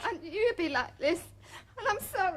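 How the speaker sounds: tearful. Acted. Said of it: "crying's not gonna help".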